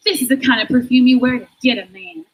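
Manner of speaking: lightly voiced home-shopping presenter; a touch of saleswoman showmanship; shopping channel pitch. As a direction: present it like a product on QVC. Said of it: "auditioning to be on Q V C".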